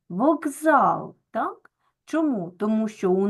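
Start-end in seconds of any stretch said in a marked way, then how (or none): 0.1-1.2 "вокзал" with К voiced as hard G; voiced consonant. Shown as a demonstration. Teacher shows pupils how К sounds here, voiced consonant. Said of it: "вимовляємо дзвінко".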